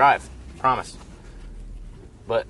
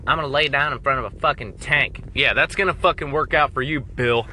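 angry rant; 3 semitones higher than usual. Acted. Rant skit at soldier Bill.

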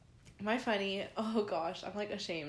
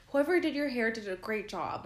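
much higher, gushing barista voice; sweet barista; 3 semitones higher, 4 dB louder than usual. Retold or imitated. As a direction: imitate a gushing, sugary girl. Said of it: "she was just so sweet".

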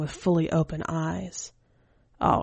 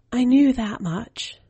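put-on higher boyish voice, slow and knowing; child's voice; 7 semitones higher, 4 dB louder, slower than usual. Keiichi shrugs off the news about his mama, in a slow, higher boyish voice. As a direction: let the boy shrug it off, unimpressed.

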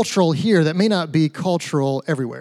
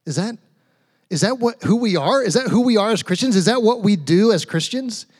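raised-pitch questions, stumbling into mild disbelief; acted dubious questioning; 4 semitones higher than usual. Christians doubting what others do, acted disbelief. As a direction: imitate someone taken aback, questioning in rising tones. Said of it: "and we kinda go".

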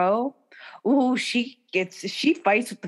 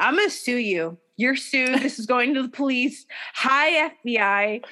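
mimicking a singer; 3 semitones higher than usual. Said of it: "He is always, like, fucking tweeting".

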